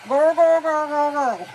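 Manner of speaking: put-on loud, rapid burst of girls; real-fast girl noise. Shown as a demonstration. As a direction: show off the girl trick at full volume. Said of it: "to teach him how to do".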